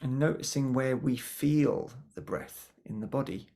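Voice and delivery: calm, unhurried guiding voice with long pauses; guided meditation. Acted. Meditation teacher guiding attention to the breath, calm guiding voice. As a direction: gently lead the listeners inwards, pausing between phrases.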